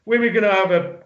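put-on slurred, drunken shout for a party. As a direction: sound drunk and rowdy. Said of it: "really drunk already".

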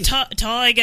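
hesitant try at Aussie "tiger"; imitated Australian vowel in "tiger"; Australian accent attempt. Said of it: "I'm still saying it the same way".

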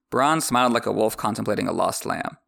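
ordinary delivery

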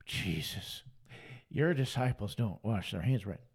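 low, soft, put-on scold; sneering low Pharisee complaint; mocking Pharisee. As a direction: lampoon a fussy Pharisee, dropped low. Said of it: "just like the Pharisees wanted".

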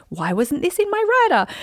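high-pitched mock diva complaint; annoyed. Diva speaker griping to Mark about the venue, annoyed. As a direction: act out a miffed, put-out question. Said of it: "I would get annoyed".

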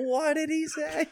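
very high, slow, drawn-out cartoon voice; exaggerated falsetto impression; cartoon character impression. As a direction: squeak it out like a doddering cartoon character. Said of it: "does a great impression of that".

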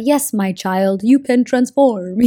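lightly voiced wise elder, slowed down; wise old elder. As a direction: speak like an ancient mentor blessing a student. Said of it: "old in a good way".

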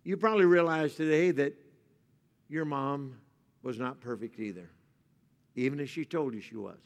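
soft, low sermon voice; tender preaching. Real, not acted. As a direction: speak gently about mothers.

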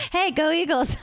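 high cheer breaking into laughter; laughing fan call. Retold or imitated. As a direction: call out to a stranger, amused. Laughing imitation of random hiker greeting.

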